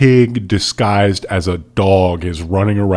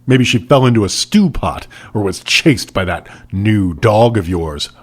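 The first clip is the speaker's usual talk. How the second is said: a sharp, mocking villain jab; snapped. Boucher snapping a sick joke at the kids, sharp. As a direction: snap a cruel joke at them. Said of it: "Boucher snapped".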